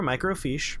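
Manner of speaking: "microfiche" ending in a long "feesh"; pronunciation demo. Shown as a demonstration. Showing the audience how it is pronounced, "microfiche" said "micro-feesh". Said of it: "It's pronounced like you wrote it there".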